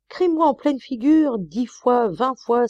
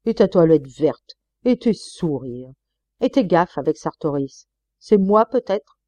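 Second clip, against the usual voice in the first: louder, mocking self-accusations; sarcastic counterattack; 4 semitones higher, 4 dB louder than usual. Husband mocking his wife's accusations, angry sarcasm. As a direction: fling her reproaches back with sarcasm.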